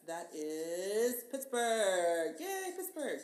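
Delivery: salesy pitch selling Pittsburgh; mock city ad pitch. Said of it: "give your Pittsburgh plug".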